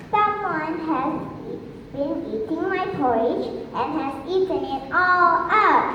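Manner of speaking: a small cub complaining; little bear voice. Acted. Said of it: "and said".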